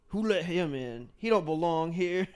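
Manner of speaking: slow redneck twang, imitated; mock redneck accent. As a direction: imitate a disapproving redneck local, slowly. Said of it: "redneck paradise out there".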